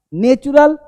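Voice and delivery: first vowel of नेचुरल as a long "nay"; wrong pronunciation. Shown as a demonstration. English teacher shows learners the common mistake, mispronounced. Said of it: "नेचुरल नहीं बोलते".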